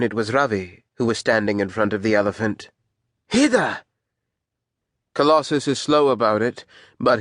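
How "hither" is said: high, sharp call of command. Acted. Man calls an order to the elephant, commanding.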